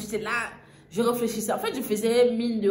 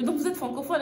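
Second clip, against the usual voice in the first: amazed; 6 semitones higher than usual. Retold or imitated. Amazed question to vendor.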